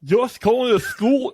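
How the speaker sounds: woman's voice. Acted. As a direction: try a schoolgirl voice up high. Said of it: "I was playing it as a woman".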